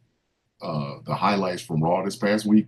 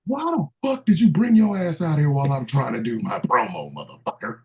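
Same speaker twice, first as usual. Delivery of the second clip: wrestling promo; 5 semitones higher than usual. Retold or imitated. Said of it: "I'm just waiting for that".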